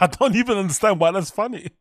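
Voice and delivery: high, loud disbelief with a laugh; can't believe anyone finds this funny; incredulous. Real, not acted. Mocking the comedian's joke.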